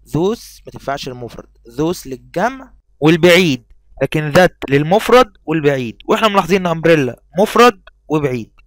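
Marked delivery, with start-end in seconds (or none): 1.7-8.5 emphatic rule. Acted. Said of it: "teacher stresses rule".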